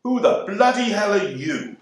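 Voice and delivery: a lightly voiced cantankerous hag looking down on you; haughty hag. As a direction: look down your nose and demand it. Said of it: "she looks down at you through lordly eyes and say".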